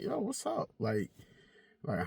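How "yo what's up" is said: imitating the girl. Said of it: "she probably was like".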